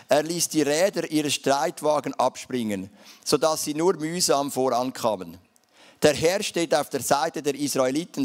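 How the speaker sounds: measured Bible reading in Standard German; formal read-aloud verse; scripture reading. Acted. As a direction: read the verse out to the congregation, each phrase falling at its end.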